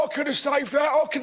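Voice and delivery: lightly voiced boastful bloke; boastful armchair fan. Comic mocking blokes who think they'd save it, boastful. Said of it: "all these sort of blokes go".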